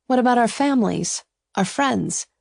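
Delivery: high, protesting heroine; worried objection. A narrator's reading. Ava worries about family and friends, high protest. Ava argues against eloping.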